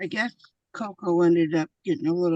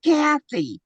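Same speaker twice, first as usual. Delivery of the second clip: loud mock call; 8 semitones higher, 12 dB louder, slower than usual. Mocking the loud dog call.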